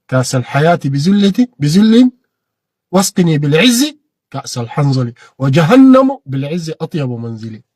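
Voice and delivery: slow, declaimed line of verse; solemn reading of an Arabic poem line; poem recital. Real, not acted. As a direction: recite it with pride and weight.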